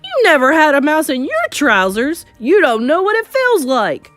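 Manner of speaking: loud, high, aggrieved shout; shouting back. A narrator's reading. Man arguing with the mocking cooks, shouting back. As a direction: protest loudly that they can't understand. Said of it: "the man was shouting back".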